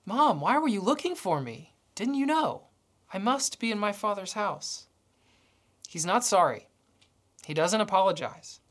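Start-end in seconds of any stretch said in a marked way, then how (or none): 0.1-4.9 Jesus puzzled, a touch of surprise in the question; genuinely puzzled why they searched; surprised boy. Retold or imitated. Boy Jesus asks his mom, mildly surprised. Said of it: "looks up at his mom with surprise".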